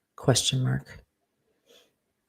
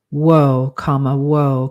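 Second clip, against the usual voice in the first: startled exclaim; 6 dB louder, slower than usual. Acted. Startled man with raised club.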